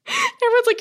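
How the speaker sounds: normal talking voice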